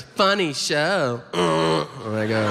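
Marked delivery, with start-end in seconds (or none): 0.0-1.2 slow deadpan. Retold or imitated. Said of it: "she goes".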